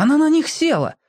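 a high dismayed gasp; gasped realisation. Acted. Borka realizes Nyuska sat on the candy, high dismay. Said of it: "ахнул Борька".

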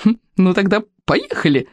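mild excited squeal. A narrator's reading. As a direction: give the go with a touch of a squeal. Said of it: "взвизгнула Камикадзе". (слегка взвизгивая от азарта)

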